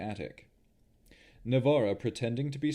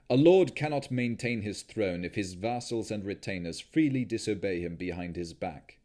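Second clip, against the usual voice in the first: louder, commanding vampire lord; stern lord; 4 dB louder than usual. Acted. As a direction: lay down the law to her. Strahd lecturing, stern.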